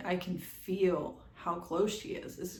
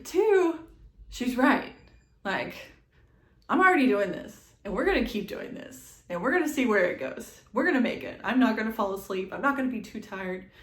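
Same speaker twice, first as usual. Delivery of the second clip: determined pep talk; 5 dB louder, faster than usual. Retold or imitated. Self pep talk in labor.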